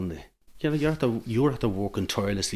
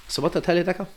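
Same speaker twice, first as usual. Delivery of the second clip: told you so; 10 semitones higher, 3 dB louder, faster than usual. Retold or imitated.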